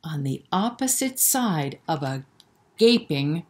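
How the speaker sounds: sing-song rhyming storybook read; lilting bedtime-story narration; reading to children. A narrator's reading. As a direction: read the rhyme aloud to little kids. Reads a rhyming picture book.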